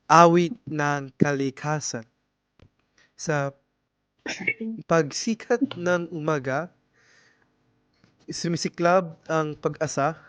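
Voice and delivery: a shy woman reciting verse at poetry night; poem recital. Acted.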